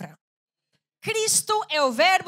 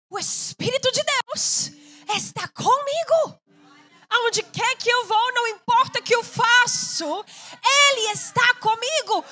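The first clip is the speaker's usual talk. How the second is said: higher, louder fervent preacher; fervent preaching; 7 semitones higher, 6 dB louder than usual. Acted. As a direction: preach it with fire. Preaching at full force.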